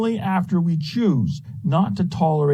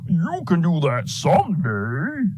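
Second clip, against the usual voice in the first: higher, slow put-on inner voice; voice of procrastination; 4 semitones higher, slower than usual. Hardwiring talking the dreamer into waiting, slow mock procrastinator voice. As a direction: stretch it out like a wheedling excuse-maker. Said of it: "that voice from my biological hardwiring that says".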